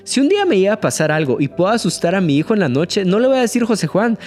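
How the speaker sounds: quick, playful joking aside; lively, rapid kidding with a laugh creeping in. Real, not acted. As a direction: say it as a light-hearted joke. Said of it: "en tono de broma".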